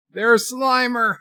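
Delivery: high, slow, drawn-out excited call; excited shout. Real, not acted. Streamer spotting Slimer on screen, excited slow shout. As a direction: call it out like you spotted a ghost.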